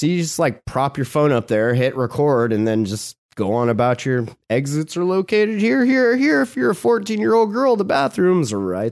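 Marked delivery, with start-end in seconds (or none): 2.5-8.9 sing-song cabin announcement, slowing; mock in-flight safety spiel; flight attendant voice.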